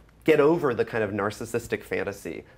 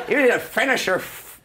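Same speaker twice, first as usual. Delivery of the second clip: gruff bulldog of a professor, pitched up; growly bulldog voice; 12 semitones higher, 5 dB louder than usual. Retold or imitated. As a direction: bark it like a stern old bulldog. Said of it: "really kind of growly sort of bulldog voice".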